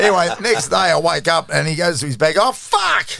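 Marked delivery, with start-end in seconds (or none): 2.4-3.1 surprised. Retold or imitated. Roommate finds wet bag.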